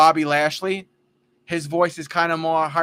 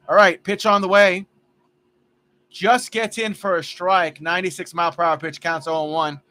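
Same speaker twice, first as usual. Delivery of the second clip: lively baseball play-by-play; play-by-play call; 3 dB louder than usual. Acted. Announcing his ballgame to friends, live broadcaster style. Commentates his video game.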